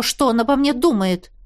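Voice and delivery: ordinary delivery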